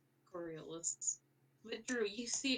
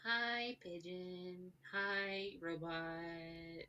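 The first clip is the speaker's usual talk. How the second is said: put-on sighing toddler; much slower than usual. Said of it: "And she sighs, and she goes".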